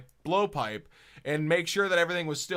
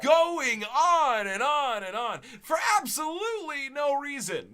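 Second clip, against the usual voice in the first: laughing exasperation; 8 semitones higher than usual. Real, not acted. Mocking his own childhood rambling, laughing high. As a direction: cry out in disbelief at yourself.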